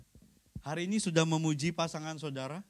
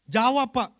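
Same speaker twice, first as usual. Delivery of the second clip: urging answer; 6 semitones higher, 8 dB louder than usual. Real, not acted. Preacher urging husband to answer.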